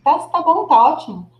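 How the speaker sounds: usual speaking voice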